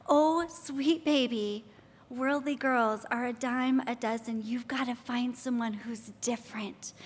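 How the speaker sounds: gently voiced motherly advice, softening as it goes; tender mother. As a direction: coax a beloved son, understated. Imagined mother tenderly advising son.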